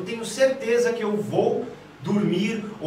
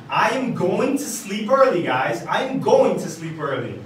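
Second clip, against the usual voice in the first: slow, firm and louder; assertive; 4 dB louder, slower than usual. Shown as a demonstration. Teacher shows students a sentence sounding certain, assertive. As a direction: state it with full certainty. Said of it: "parece que eu tô tendo mais assertividade".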